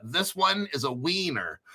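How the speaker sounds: put-on South American accent, "winner" said as "wiener"; lightly mock a South American accent; casual joke South American accent. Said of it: "That's my South American accent".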